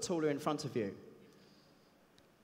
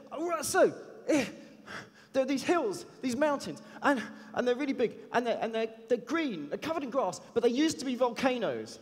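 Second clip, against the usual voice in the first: lightly voiced eager kid, pitched higher; a hint of a chatty boy from Harlem, higher; ten-year-old kid; 5 semitones higher than usual. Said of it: "I won't do his accent".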